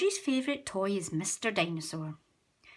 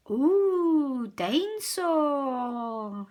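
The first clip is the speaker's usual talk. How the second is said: George; 5 semitones higher, 5 dB louder, much slower than usual. A narrator's reading. George voiced in story.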